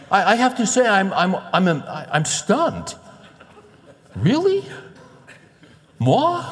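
stammering, high-pitched disbelief; mock shock. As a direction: act hammed-up stunned, high and loud. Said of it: "it, it shocks me".

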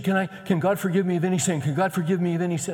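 high, urgent mimicry of a distraught young woman; retold hysterical plea. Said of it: "and this gal's hysterical".

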